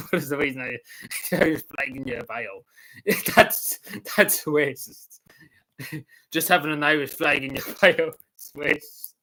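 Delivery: words broken up by incredulous laughs; laughing in disbelief. Real, not acted. Streamer mocking a racism accusation over an Irish flag, laughing.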